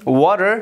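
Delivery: "water" with the final R sounded; slow, deliberate "water" with rhotic ending; R pronounced. Shown as a demonstration. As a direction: finish "water" on an audible R. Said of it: "we pronounce R".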